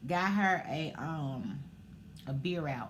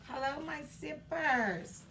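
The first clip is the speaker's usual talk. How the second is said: breathy vintage purr; 8 semitones higher, slower than usual. Acted. Second greeting, same voice.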